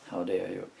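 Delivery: loud, playful outrage; put-on affront, punched out loud; mock indignation. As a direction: act offended at the accusation, loudly. Mock reply to online accent comments.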